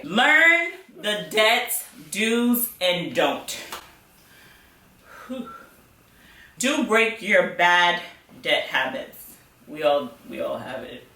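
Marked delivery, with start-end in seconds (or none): 5.3-5.5 breathy tired exhale; tired whew. Real, not acted. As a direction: blow out a weary whew. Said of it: "tired and out of breath".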